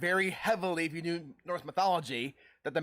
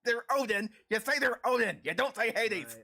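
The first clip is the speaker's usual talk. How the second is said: higher-pitched mock outrage; exasperated protest; 6 semitones higher than usual. Acted exasperated correction in retold show.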